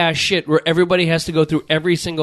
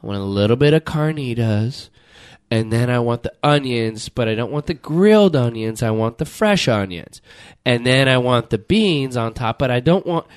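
picky customer; 9 semitones lower than usual. Retold or imitated. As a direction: drag out each onion choice like a fussy orderer. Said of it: "every person in that line to go".

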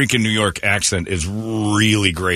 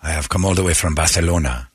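mock Spanish with a lisp, lower; lisping Spanish accent; 5 semitones lower than usual. Co-host showing the lisp Spanish encourages, mock Spanish. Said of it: "encourage you to lisp".

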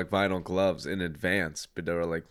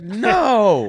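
higher, louder retold "no"; mock emphatic denial; 12 semitones higher, 8 dB louder than usual. Friend denying she played basketball, mock emphatic denial. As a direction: imitate a friend's loud, high denial. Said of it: "She was like".

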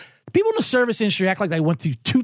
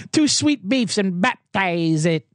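imitating old friend; 3 semitones higher than usual. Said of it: "He goes".

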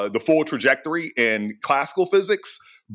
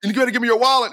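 mugger's high disbelief, pitched way up; a stunned robber who can't believe the refusal; shocked mugger; 12 semitones higher, faster than usual. Retold or imitated. Mugger baffled when the victim refuses, high and incredulous. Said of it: "And the guy was like".

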